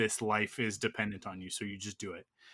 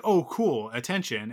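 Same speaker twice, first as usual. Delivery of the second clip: cat voice; 5 dB louder than usual. Retold or imitated. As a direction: voice the pleased cat. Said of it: "he'll be like".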